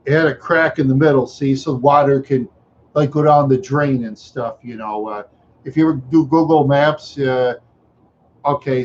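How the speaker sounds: usual speaking voice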